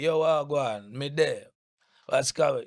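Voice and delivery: lightly put-on Jamaican patois greeting; a touch of Jamaican accent, tossed out as an example. Shown as a demonstration. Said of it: "so much interest in the patois".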